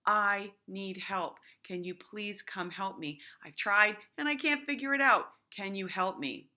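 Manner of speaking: teacher showing a confident way to ask for help; confident request. Shown as a demonstration. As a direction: ask clearly and politely. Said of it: "But in a confident".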